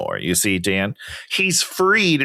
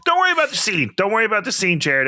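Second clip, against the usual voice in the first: high-pitched mock chat with a star; mock coaxing; 11 semitones higher, much faster than usual. Someone fussing over Jared about his hair, high mock voice. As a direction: pitch it well up, playfully pestering. Acts out someone addressing the actor.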